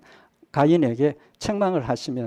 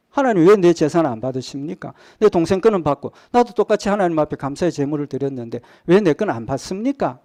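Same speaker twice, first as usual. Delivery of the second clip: a touch louder, protesting God in Cain's voice; Cain's mock anger; 3 dB louder than usual. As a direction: play Cain's indignant complaint, lightly. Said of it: "하나님에 대한 분노죠".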